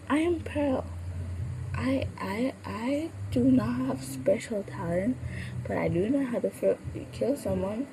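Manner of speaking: a lightly high Pearl, tripping on her words; a touch of high Pearl voice; Pearl's voice. Acted. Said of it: "Pearl does stumble on her words".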